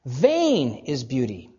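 "Vain" drawn out slowly and punched; "Vain" emphasized up front, slow; stress on Vain. Shown as a demonstration. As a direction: land hard on "Vain", then let the rest fall. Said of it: "same thing happens in the next line".

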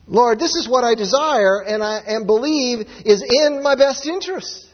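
loud, fervent sermon delivery; preaching. Acted. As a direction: press the point home with conviction. Preaches at full force.

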